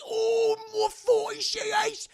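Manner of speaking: high, slow anguished wail; drawn-out high scream; high pained cry. Retold or imitated. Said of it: "he goes".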